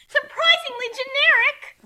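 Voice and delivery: loud, high battle cry; shouted insult. Acted. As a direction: yell it as you strike. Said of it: "shouted insults in battle".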